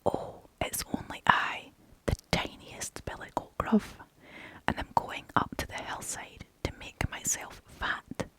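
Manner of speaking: tiny timid whispered voice; a little goat, small and meek. Acted. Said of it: "with such a small voice".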